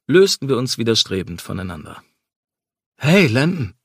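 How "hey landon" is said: calling out. A narrator's reading. Calling to him from the car.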